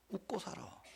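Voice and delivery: whispered softly and tenderly. Retold or imitated. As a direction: breathe it like a gentle blessing. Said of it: "하나님이 웃으시면서 하는 말씀".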